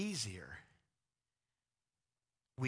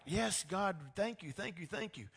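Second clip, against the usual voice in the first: high, gushing thank-yous; mock-eager congregation thanking God; 6 semitones higher than usual. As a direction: gush with relief at God. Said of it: "And we're like".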